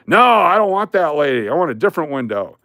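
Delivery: high, loud mock refusal easing off; yelling customer. Angry man refusing the teller window, mock yelling. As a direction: imitate a grumpy man hollering no. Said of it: "who's been yelling at everybody".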